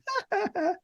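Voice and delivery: high, soft mocking laugh; imitated snickering. Shop guys laughing at the struggling tech, imitated snicker. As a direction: mimic people laughing behind your back. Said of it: "They're laughing".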